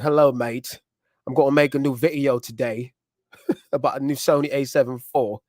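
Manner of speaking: lightly imitated Australian accent, amused. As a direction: try a rough Australian accent, breaking into a chuckle. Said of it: "He got that Australia accent in there".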